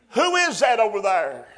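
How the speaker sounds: loud, high astonished question; surprised call. Acted. Disciple in the boat calling out in surprise. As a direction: shout it in wonder.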